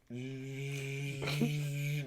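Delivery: long steady toothbrush whine; imitated toothbrush buzz. Storyteller mimics the sound heard from the bathroom, toothbrush buzz. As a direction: hold one even buzzing note like a toothbrush. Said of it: "he's just brushing his teeth".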